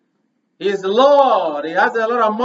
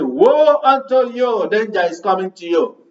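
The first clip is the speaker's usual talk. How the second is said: voicing Christ; 2 semitones higher than usual. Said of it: "And Christ said".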